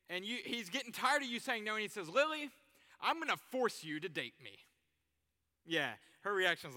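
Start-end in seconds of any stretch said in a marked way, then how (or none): 2.1-4.6 forceful demand. Acted. Joe threatening Lily.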